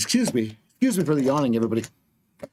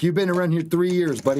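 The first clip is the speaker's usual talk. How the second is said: normal talking voice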